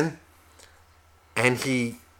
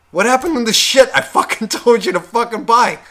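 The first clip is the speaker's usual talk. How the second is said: angry; 8 semitones higher, 4 dB louder than usual. Retold or imitated. Husband yelling at wife.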